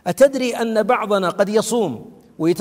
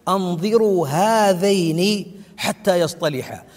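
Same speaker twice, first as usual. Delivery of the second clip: measured, drawn-out recited decree; slow solemn quotation; slower than usual. Retold or imitated. Preacher quoting God's order to the angels, slow solemn quotation. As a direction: quote it slowly, stretching the words.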